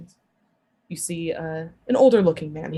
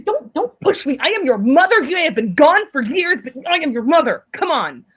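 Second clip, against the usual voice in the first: scolding mother; 5 semitones higher, 3 dB louder than usual. Acted. Mother scolds returning child.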